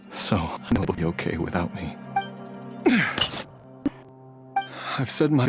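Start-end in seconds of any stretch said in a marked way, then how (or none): 2.0-3.4 heavy breath out; resigned sigh. Acted. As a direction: sigh before the last goodbye. Saying his last goodbye.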